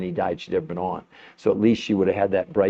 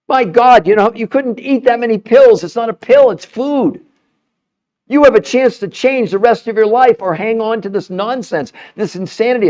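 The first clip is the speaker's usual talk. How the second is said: higher and louder, really heated; fired up; 11 semitones higher, 6 dB louder than usual. Real, not acted. To the audience about the diet nonsense, fired-up loud outburst. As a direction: let it burst out, all fired up. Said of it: "I get really fired up".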